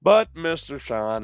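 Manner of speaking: high, loud, slow verdict voice; judge verdict. Acted. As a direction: pronounce it like a pompous judge.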